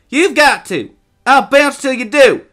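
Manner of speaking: put-on high, loud boyish insistence; bossy shout. A narrator's reading. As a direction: holler it while bouncing on him. Boys tussling, Joel insists.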